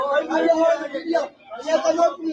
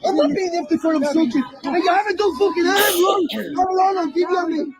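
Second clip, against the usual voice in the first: angry shout. Real, not acted. Man shouting at officers during the arrest, angry yell. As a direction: shout him down, outraged.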